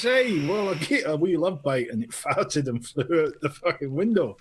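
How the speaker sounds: put-on Scottish accent; comic Scottish punchline delivery. Joke-teller as customer explaining the fault, mock Scottish accent. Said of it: "did you do that in a Scottish accent".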